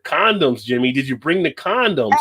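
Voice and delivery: a hint of an oblivious father; imitated blunt dad. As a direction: put the question openly, as the dad. Acting out dad asking aloud.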